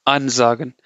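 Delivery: "ansagen" with the prefix AN emphasized and set apart; stress on prefix. Shown as a demonstration. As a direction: punch AN in "ansagen", slight pause after it. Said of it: "you have to emphasize the prefix".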